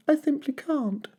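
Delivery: put-on gentle baby dinosaur pleading; little Drip. A narrator's reading. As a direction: apologise like a small shy dinosaur. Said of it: "he said".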